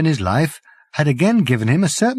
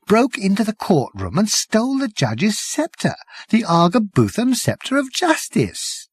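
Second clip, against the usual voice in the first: higher, hoarse and shaky telling; a frightened man half whispering; 7 semitones higher than usual. Acted. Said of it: "whispered the man hoarsely".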